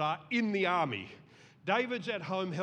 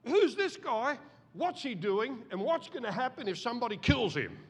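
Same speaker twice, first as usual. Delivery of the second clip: curious asking; 5 semitones higher than usual. Retold or imitated. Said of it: "David simply asks".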